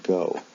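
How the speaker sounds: "go" with a long O vowel; O sound. Shown as a demonstration. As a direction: say "go" to rhyme with "no". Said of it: "pronounced with an O sound".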